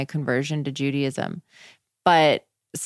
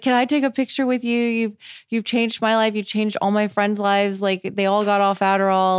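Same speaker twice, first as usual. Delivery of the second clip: excited fan; 5 semitones higher, 3 dB louder than usual. Retold or imitated. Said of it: "she's like".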